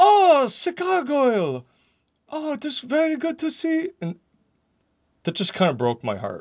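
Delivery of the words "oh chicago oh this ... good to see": put-on very high, slow, unhurried German accent. Quoting a man reacting to the speaker's message, imitating his German accent. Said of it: "in his German accent".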